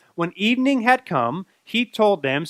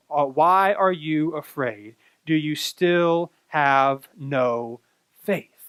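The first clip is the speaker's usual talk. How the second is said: gentle question; 4 semitones lower, much slower than usual. Acted. Jesus gently questions disciples.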